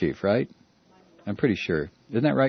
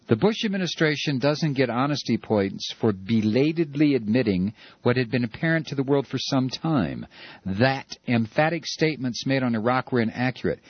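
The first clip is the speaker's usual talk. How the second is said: mocking read; 6 semitones lower than usual. Shown as a demonstration. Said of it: "John Kerry's powerhouse of a statement".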